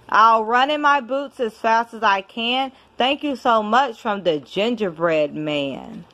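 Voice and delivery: lively storybook reading with rhyme; reading to a child. Acted. Parent reading a rhyming book to a child, storytelling voice. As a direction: read it like a bedtime picture book. Reads picture book aloud.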